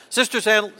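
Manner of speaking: quick stab at a tongue twister; real fast. Shown as a demonstration. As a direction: rattle it off quickly. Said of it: "Real fast".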